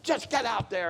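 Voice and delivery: imitating an exasperated coach; coach's yell. Coach repeating his order to a lost player, mock yell. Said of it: "the coach just yelled at him".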